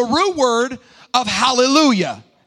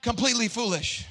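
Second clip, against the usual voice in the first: soft, understated echo; hushed restatement; quiet repeat; 7 dB quieter than usual. Real, not acted. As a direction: let it drop softly after the shout. Repeats it quietly after shout.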